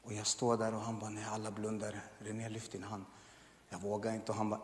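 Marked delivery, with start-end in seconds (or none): 1.1-3.0 soft, low, hushed coaxing; pastor's hushed urging. Retold or imitated. Pastor quietly urging René to raise his hand. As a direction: coax him quietly while eyes are closed. Pastor urges him privately.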